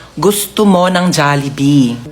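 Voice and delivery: mabagal na "gusto mo ng Jollibee"; isa-isang bigkasin para matuto; slow coaching. Shown as a demonstration. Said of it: "Sabihin mo kay Mama". (mabagal na pagtuturo)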